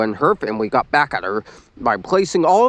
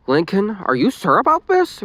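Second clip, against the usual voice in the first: concerned; 7 semitones higher than usual. A narrator's reading. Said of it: "Rita asked in concern".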